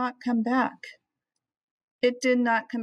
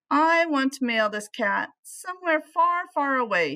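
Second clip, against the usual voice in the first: put-on raised, firm grumpy old man; grumpy Flugel; 6 semitones higher than usual. Man demanding the clerk mail the cat, grumpy and raised. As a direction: insist on sending the cat far away.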